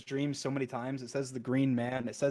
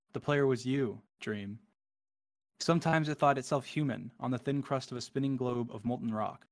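poem reading. Acted. Gamer reading the End Poem to viewers, hushed and dreamy. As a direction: read it like a dreamy cosmic poem.

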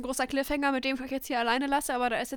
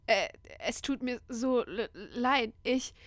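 retold stammering; slower than usual. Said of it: "stotterte nur".

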